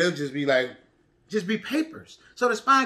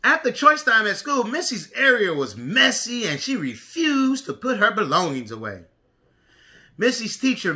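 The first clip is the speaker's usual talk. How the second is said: put-on reading to a toddler. A narrator's reading. Reads picture book to preschoolers.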